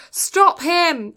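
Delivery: high, loud mock police yell. Police officers yelling at colleagues as he runs past, yelling. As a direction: call out the order like a chasing cop. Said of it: "and they're yelling".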